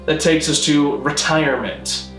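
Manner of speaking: ordinary delivery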